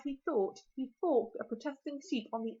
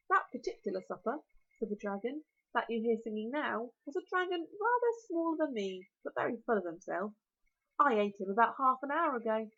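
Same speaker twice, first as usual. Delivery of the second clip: dragon voice. Acted. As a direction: relish every word like a huge dragon.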